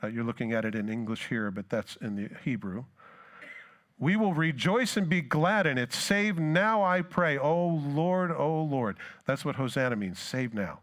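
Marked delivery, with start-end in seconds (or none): 4.0-5.9 higher, louder proclamation; preacher ringing out the verse; proclaimed. Shown as a demonstration. 5.9-9.0 much higher, louder jubilant call; preacher voicing the crowd's glad cry; joyful crowd cry. Crowd's Hosanna cry voiced.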